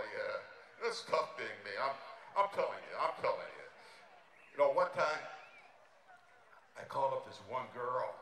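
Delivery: a lightly done Dangerfield voice, exasperated and self-pitying; Rodney Dangerfield impression. Comic on stage doing a Dangerfield set, self-pitying. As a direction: play it like a put-upon comic who gets no respect.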